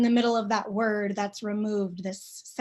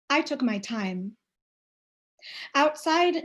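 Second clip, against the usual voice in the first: measured, unhurried poem reading with long pauses; reading her own poem to an audience; poetry reading. Acted. Reads her poem aloud.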